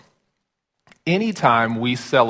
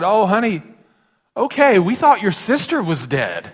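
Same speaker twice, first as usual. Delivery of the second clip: relieved laugh; 8 semitones higher than usual. Retold or imitated. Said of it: "And I said".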